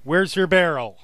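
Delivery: giant entity voice. Acted.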